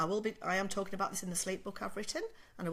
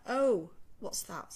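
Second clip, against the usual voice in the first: slow puzzled wonder; 4 dB louder, much slower than usual. Retold or imitated. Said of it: "First time, it's like".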